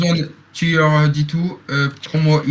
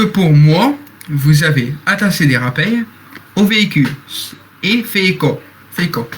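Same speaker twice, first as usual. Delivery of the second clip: staff quoting a reference; 2 semitones lower than usual. Pretend. Staff moderator lecturing a troller, stiff official tone. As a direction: lay down the rules like a stiff official. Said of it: "C'est une ref, hein".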